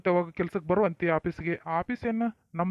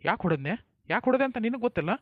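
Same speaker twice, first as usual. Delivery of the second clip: angry scolding; 5 semitones higher, faster than usual. Acted. Husband scolds wife angrily.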